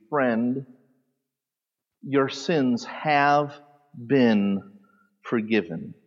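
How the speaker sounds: slow, soft, tender rendering of the verse; slow, hushed "forgiven" at the end; tender reading. Shown as a demonstration. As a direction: let each word land slowly and gently. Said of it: "the best translation here would be".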